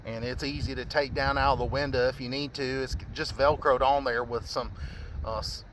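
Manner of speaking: shouting over wind. Real, not acted. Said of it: "sorry about the wind noise".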